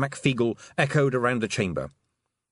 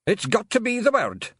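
high, loud desperate shout; desperate yell; 12 semitones higher, 4 dB louder than usual. Acted. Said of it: "yelled Rob Anybody desperately".

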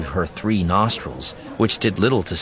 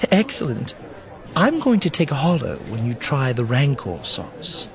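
higher-pitched companion voice; light, high character voice; Nakari; 6 semitones higher than usual. A narrator's reading. Narrator voices Nakari teasing.

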